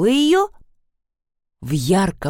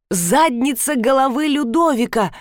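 raised, emphatic repeat by the stranger; lightly voiced ape-man; 6 semitones higher than usual. A narrator's reading. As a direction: echo the phrase grandly, less high than a child. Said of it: "повторила обезьяна". (незнакомец в маске обезьяны, с лёгким пафосом)

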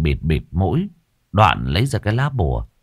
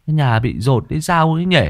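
put-on higher, grumbling boy; 7 semitones higher than usual. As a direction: complain half asleep. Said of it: "Vừa càu nhàu".

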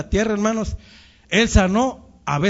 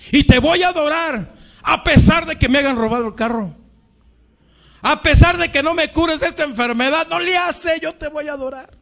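worshipper's vow; 7 semitones higher than usual. Retold or imitated. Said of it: "basta para decir".

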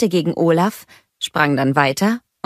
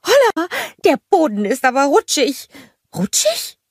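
cheery greeting; 14 semitones higher, 3 dB louder than usual. A narrator's reading. Olaf greeting the snowgies, high and happy. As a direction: call out warmly to the little ones.

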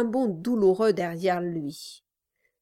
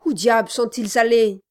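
stunned; 3 semitones higher, 8 dB louder than usual. Acted. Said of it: "toujours stupéfait".

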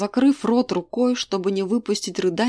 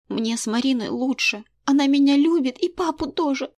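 put-on girl's voice; 6 semitones higher than usual. A narrator's reading. Daughter chooses Marina.

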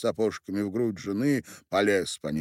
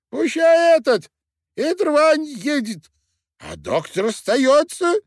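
very high, loud, squeaky tiny-man voice; shrill-pitched drunk dwarf miller; 11 dB louder than usual. A narrator's reading. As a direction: play a drunk little man squealing from his wife's arms.

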